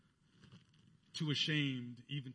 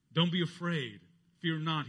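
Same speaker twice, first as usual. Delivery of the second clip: angel's reassurance; 3 semitones higher, 5 dB louder than usual. Retold or imitated. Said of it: "he said to the shepherds".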